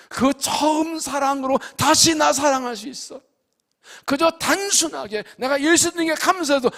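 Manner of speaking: high, rising, impassioned sermon; fervent preaching. Acted. Pastor urging the church back to first love, impassioned. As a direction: pour it out with joyful fervour.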